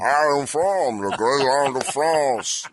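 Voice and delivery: put-on lightly French-accented Andre. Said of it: "more of a French accent".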